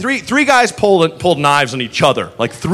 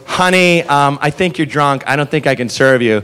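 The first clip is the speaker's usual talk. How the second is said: gentle; 3 semitones lower than usual. Retold or imitated. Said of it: "the bartender goes".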